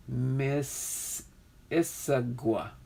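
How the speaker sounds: "Miss ... Issaquah" slowly, pause after Miss; careful two-part "Miss Issaquah"; broken-down pronunciation. Shown as a demonstration. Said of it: "break down the pronunciation".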